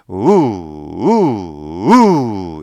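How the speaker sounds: three oo kicks, the last the strongest; oo pulses from the belly; diaphragm pulses. Shown as a demonstration. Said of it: "이렇게 낸다".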